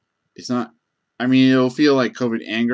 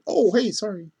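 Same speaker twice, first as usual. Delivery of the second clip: mock sheepish sorry; 10 semitones higher than usual. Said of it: "but they're just like".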